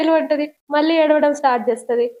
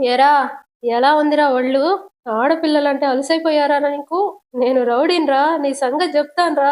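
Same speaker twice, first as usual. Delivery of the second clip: rowdy threat. Acted. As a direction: square up like a street rowdy. Self-styled rowdy threatening. (రౌడీలా బెదిరిస్తూ)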